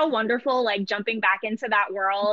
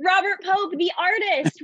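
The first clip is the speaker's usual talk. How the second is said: laughing; 6 semitones higher than usual. Real, not acted. Laughs after stumbling on name.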